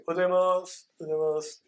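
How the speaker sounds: mumbled, swallowed morning greeting; slurred greeting with a trailing hiss; office worker. Acted. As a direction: imitate a perfunctory workplace good morning. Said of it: "例えばサラリーマンの方とか".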